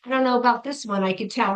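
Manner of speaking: fast, doubtful aside from the client; skeptical side-eye. Retold or imitated. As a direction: voice her doubting glance quickly. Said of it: "like, the side eye".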